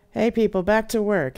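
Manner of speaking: loud, high call to order. Acted. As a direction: snap the crew back to their jobs. Boss calls crew to order.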